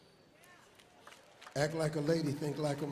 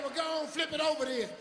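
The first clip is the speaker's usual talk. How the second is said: 1 cocky dare; 4 semitones higher, faster than usual. Retold or imitated. Contestant challenging host.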